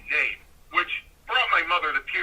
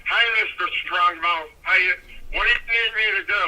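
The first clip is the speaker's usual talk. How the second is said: lightly voiced eager teenager, slightly lifted; eighteen-year-old voice; 3 semitones higher, 3 dB louder than usual. Young rookie greeting a famous wrestler, lightly put-on teenage voice. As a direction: play your younger self greeting a hero. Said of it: "my eighteen-year-old voice".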